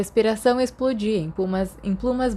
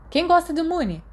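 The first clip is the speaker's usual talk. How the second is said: higher singsong tease; teasing question; 10 semitones higher than usual. Acted. Sirius needling Mary about Moony, high teasing voice. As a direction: poke fun with a lifted voice.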